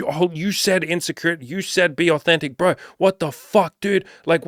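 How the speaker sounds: hammed-up freakout blaming the video guy; frantic panic. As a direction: freak out in a shrill rush of panic. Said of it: "You're like".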